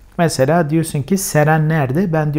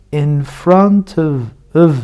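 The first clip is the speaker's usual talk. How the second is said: in front of with of reduced to a schwa and v; blurred, quick in front of; fast reduced; much slower than usual. Shown as a demonstration. Teacher shows how in front of sounds in fast speech. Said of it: "Hızlı okuduğunda".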